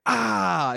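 acted yelp of pain; mock pain yell. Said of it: "you stub your toe and you're like".

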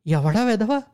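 a father learning his son was hit, shaking with anger; shaking fury. A narrator's reading. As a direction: spit it out, shaken and furious. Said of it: "మాట వణికింది".

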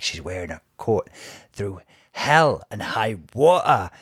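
imitated Geordie indignation; Geordie accent. Co-host quoting Tamara about the coat, Geordie accent. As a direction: do a Geordie quote, rising on the last sentence. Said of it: "I stopped in the accent".

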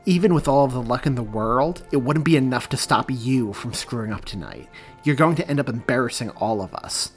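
spat with a sneer. Acted. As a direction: sneer it at the younger boy. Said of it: "he spat".

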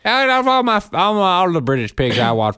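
high, loud mock enthusiasm; hammed-up gushing. Husband gushing over cartoon pig to wife, high and loud. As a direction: gush over the show like a fan. Hamming up love of Pepper Pig.

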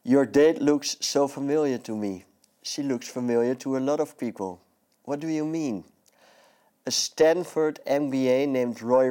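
reading a film scene in English; dialogue reading. Acted. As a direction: perform the scene aloud. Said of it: "Wil je voorlezen wat je hebt meegebracht".

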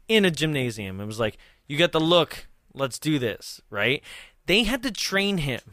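ordinary talk, nothing marked

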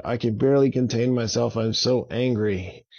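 fast, tight, barely held-back anger; mild angry dragon. Acted. Drago tells Avon he can barely contain himself, mildly angry. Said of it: "This made Drago very angry".

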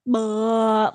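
imitated blank toddler noise; imitating a drooping, vacant face; slack-jawed "bleh". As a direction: let out a dopey, open-mouthed bleh. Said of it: "their face is just kinda like".

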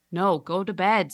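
irritated snap; fed-up dad; annoyed. Acted. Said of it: "says the annoyed man".

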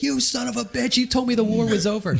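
high-pitched mock outrage at normal volume; odgrywane oburzenie. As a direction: retell an indignant accusation, pitched well up. Retold accusation by returning buddy.

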